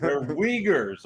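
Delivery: talking around chewing gum; mouth full. Real, not acted. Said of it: "I got gum in my mouth".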